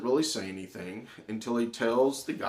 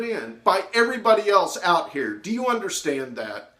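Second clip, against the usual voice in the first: louder, higher scolding; angry scolding; 6 semitones higher, 4 dB louder than usual. Retold or imitated. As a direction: lay into him hard. Teacher berating student.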